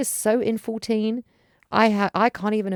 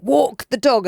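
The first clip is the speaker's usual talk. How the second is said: mild mock yell; 4 semitones higher, 5 dB louder, slower than usual. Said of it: "me screaming".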